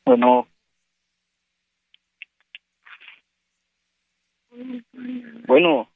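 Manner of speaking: to someone hard of hearing. Real, not acted. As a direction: call out hello down the line. Calling into a silent phone line.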